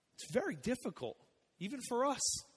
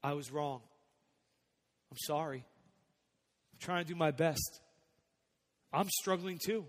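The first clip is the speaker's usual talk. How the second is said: sincere apology. Shown as a demonstration. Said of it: "And tell your kids".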